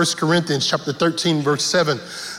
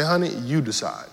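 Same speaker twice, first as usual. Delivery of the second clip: wife's reply; 7 semitones lower, 6 dB quieter than usual. Retold or imitated. Wife voiced in a retold argument.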